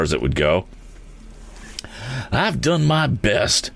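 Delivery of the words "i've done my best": gasping. A narrator's reading. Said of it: "gasping as he swallowed some smoke".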